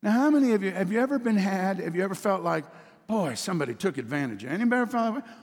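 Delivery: loud preacher call-out; calling out to the congregation. Real, not acted.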